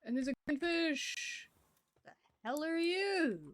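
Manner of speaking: high, loud exclamation of discovery; excited surprise. Real, not acted. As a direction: call out in amazement, pitch soaring. Reacts to a new fish.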